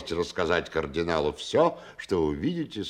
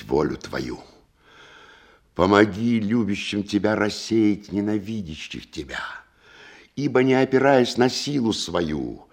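prayer. Acted. General prays before battle.

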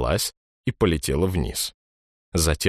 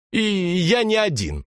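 put-on boy's voice; 13 semitones higher than usual. A narrator's reading. Boy retorts.

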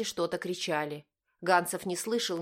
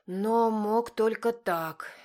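higher, louder and very slow; Margarita's remark; 4 semitones higher, 4 dB louder, much slower than usual. A narrator's reading. Margarita stating it pointedly, slow and higher. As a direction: drag each word out pointedly.

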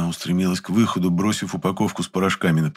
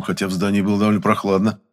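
ordinary delivery, nothing marked

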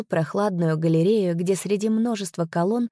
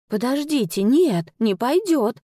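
sharp, higher and louder objection; indignant protest; 5 semitones higher, 3 dB louder than usual. A narrator's reading. Sister cuts in, indignant and raised. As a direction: protest hotly, cutting him off. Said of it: "возмутилась моя сестра".

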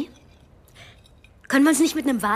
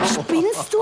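lachend empört; 7 semitones higher than usual. Acted. Wird mit Sprudel nassgespritzt.

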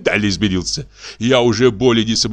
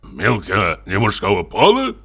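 amazed. Acted. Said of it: "изумился поручик".

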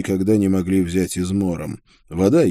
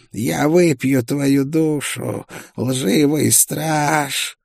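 higher, very slow sinister whisper; whispered singsong; 7 semitones higher, much slower than usual. A narrator's reading. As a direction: stretch the threat out like a ghost. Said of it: "пришёл из мрака зловещий шёпот". (зловещий напевный шёпот)

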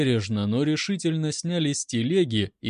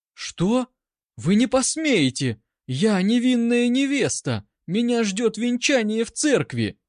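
high, louder, melodramatic terror; hammed-up holy horror; 8 semitones higher, 3 dB louder than usual. A narrator's reading. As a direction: gasp out outraged innocence. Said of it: "с выражением священного ужаса воскликнула". (театральный ужас, высоко и громко)

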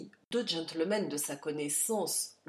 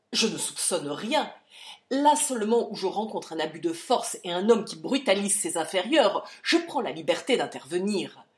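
firm loud denial; 6 dB louder than usual. Acted. Charlie defends himself.

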